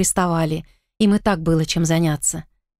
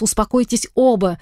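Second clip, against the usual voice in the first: stern raised scolding voice; 3 semitones higher than usual. Acted. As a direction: scold two squabbling men into calm. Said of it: "повысила я голос".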